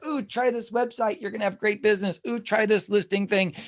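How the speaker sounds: a hammed-up gushing ad voice; mocking sales pitch. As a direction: parody a pushy spam email tempting you. Mocking hype emails about shortcuts.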